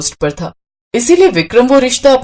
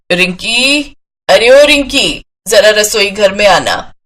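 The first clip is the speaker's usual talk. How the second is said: calling out; slower than usual. Acted. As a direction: raise the voice to be heard far away. Mother calling daughter from kitchen.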